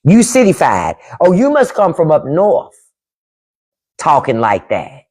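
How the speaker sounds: imitating Southern kin teasing; teasing Southern relatives. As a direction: tease like Southern family. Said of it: "they gonna say you cityfied".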